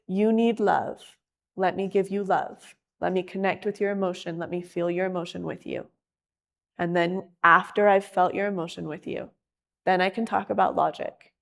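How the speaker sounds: gentle loving voice. Shown as a demonstration. Showing how to give love.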